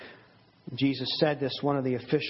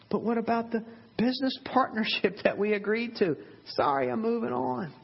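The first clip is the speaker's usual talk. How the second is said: higher, breezy brush-off of a broken promise; dismissive shrug-off; 8 semitones higher than usual. Acted. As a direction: toss it off like it means nothing. Preacher acts out a person backing out.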